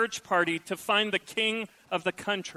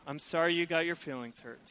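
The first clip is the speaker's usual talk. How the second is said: dismissive fake apology; 3 semitones lower than usual. Preacher mimicking a spouse's fake apology, dismissive. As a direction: brush the hurt aside. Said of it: "They say something like this".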